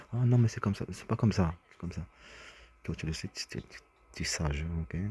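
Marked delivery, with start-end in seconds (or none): 0.1-2.0 higher, louder insistent quote; hammed-up back-and-forth, pushing hard; mock argument. Someone acting out an argument over the children, loud and insistent. Acted quarrel over the kids.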